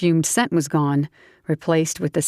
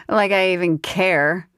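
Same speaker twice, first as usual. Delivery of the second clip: put-on higher, giggly drunk southern woman; tipsy southern woman; 3 semitones higher than usual. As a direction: play the tipsy belle teasing him. Grace's voice.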